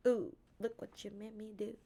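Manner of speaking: sultry song quote. Pretend. Quoting a song lyric softly.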